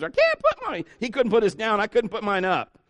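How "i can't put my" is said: put-on very high whiny little-kid voice; Randy. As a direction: whine like a helpless small child. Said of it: "I felt like Ralphie and Randy".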